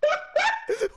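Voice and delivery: panicked laugh. Real, not acted. Reacting to game chaos.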